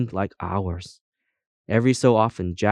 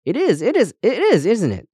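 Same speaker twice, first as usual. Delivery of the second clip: high, delighted self-congratulation; pleased; 12 semitones higher, 5 dB louder than usual. A narrator's reading. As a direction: gush it in high, louder bursts. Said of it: "sounding pleased".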